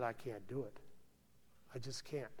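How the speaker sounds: choked refusal. Retold or imitated. Billy refusing, jaw locked.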